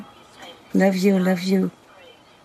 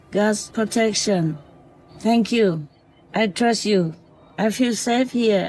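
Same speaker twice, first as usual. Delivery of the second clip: tender talk to fox; 5 semitones higher than usual. Real, not acted. Woman talking lovingly to the fox that visits nightly, tender. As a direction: gently reassure a small animal you love.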